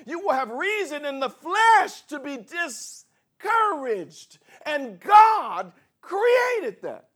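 high, loud, slowed preacher's cry; preaching at full force. Acted. Pastor preaching hard to the congregation, shouting. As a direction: build to a ringing climax.

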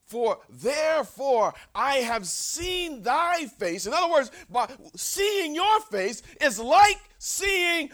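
slow, loud and intense; fervent scripture reading. Retold or imitated. Preacher reading Jacob's words to Esau, slow and loud. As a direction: proclaim it slowly with force. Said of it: "Jacob said".

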